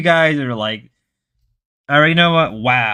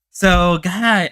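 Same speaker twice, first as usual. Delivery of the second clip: imitating aba; 5 semitones higher than usual. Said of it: "Would aba be like".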